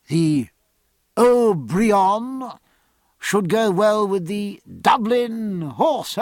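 high, loud, savouring his own joke; jovial captain. Acted. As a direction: relish the wordplay, drawing it out.

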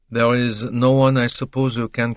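lightly voiced foreign detective, measured questioning; polite interrogator with a careful accent; Poirot. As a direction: question him courteously in an accented voice.

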